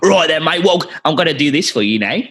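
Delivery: mock Cockney drifting towards South African; bad Cockney accent. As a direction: imitate an actor botching Cockney. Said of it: "he tries to do a Cockney accent".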